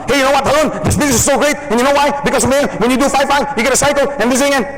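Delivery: high, fast gushing sales pitch; overexcited rush. Shown as a demonstration. Overeager salesman rushing his pitch at a client. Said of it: "you don't wanna talk like that to someone".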